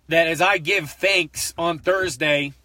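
slow, voice about to break; holding back tears, barely getting words out; choking up. Real, not acted. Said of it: "I'm trying not to lose it right now".

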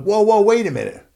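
loud, high mock protest; showy stalling. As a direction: halt everything like a cocky champion. Acts out stalling before his turn.

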